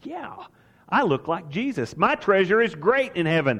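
mildly elated, starting on a small high yelp; a touch of triumphant delight; jubilant outburst. Acted. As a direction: rejoice as if jumping up, without shouting. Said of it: "make you jump up and say".

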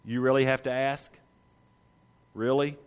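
slow, disbelieving questions; Jesus asking John's disciples, mildly incredulous. Acted. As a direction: ask as if the answer is obvious. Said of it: "Jesus looks at John's disciples and says".

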